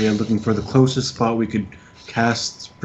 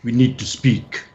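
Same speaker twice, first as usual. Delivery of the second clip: Kostya voice; slower than usual. Acted. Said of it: "say some words in Kostya's voice".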